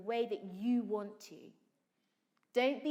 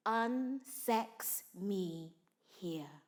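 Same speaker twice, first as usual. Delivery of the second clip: whisper; 4 semitones lower, much slower than usual. Acted. Whispered Macbeth invocation.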